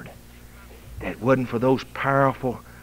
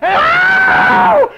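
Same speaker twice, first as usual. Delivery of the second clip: eagle cry; 15 dB louder than usual. Acted.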